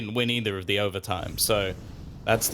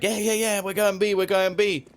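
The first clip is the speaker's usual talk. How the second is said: mock teammate; 10 semitones higher than usual.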